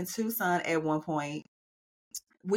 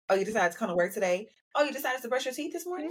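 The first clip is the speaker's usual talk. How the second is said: mocking coworker; 3 semitones higher, much faster than usual. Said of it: "that is so irritating".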